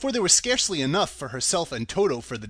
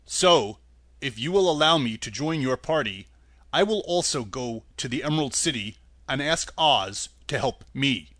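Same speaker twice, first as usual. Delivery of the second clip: Tin Woodman voice; 2 semitones lower than usual. Acted.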